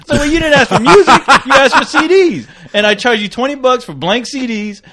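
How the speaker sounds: high, fast hustler pitch; sly salesman voice. Pretend. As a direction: pitch it like a shady dealer. Pretend sales pitch to customers.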